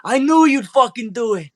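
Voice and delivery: high, excited character voice; elated, grateful father. Acted. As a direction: burst out with proud relief. Freed father praises his son.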